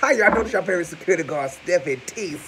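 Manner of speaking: lightly voiced hyped host; hyped intro. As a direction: announce yourself with a laugh. Character intro with laugh.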